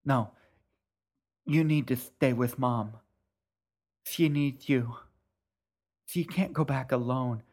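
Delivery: urgent plea. Acted. Sister urging brother from dock.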